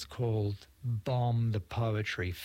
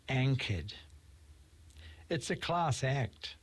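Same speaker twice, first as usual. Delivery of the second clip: measured, pausing poetry reading; poem reading. Acted. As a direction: read it like a poet on stage. Reads his poem aloud.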